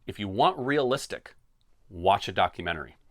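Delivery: each word laid out deliberately, mock patient; said real slow. Shown as a demonstration. Host lecturing complaining fans, said deliberately slow. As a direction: spell it out slowly for the folks in the back. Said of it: "I'm gonna say this real slow".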